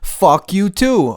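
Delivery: slow drawn-out echo of the clip; slow mocking repeat. Echoing the diss clip back at the rapper, slow and mocking.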